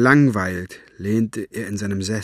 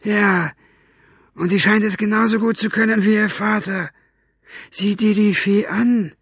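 higher, rough henchman voice, smug; brutish henchman Buster; 11 semitones higher, 3 dB louder than usual. Acted. Buster telling Capricorn the girl read it out, smug and rough. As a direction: play Buster gloating over the fairy.

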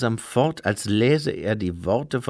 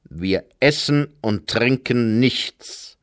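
a slow, sharp refusal; slower than usual. Acted. Herr Weiss to Lady Lejeune, a slow sharp refusal. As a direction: say it as a slow cold rebuke. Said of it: "mit scharfer Stimme".

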